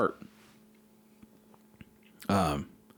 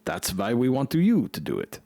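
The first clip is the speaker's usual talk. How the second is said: a lightly put-on German accent, a bit raised; bad German accent. German official answering the embassy worry, bad German accent. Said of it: "that's a terrible German accent".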